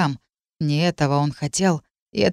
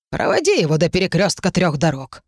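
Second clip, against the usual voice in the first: commanding crone voice; thin reedy voice. Acted. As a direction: order it like an old witch. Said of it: "обратилась лицом к своему подручному".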